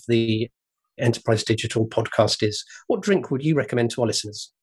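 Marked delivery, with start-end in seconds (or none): 2.9-4.5 flat mechanical robot voice; robotic voice. Pretend. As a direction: speak like a machine. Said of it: "ask you in a robotic voice".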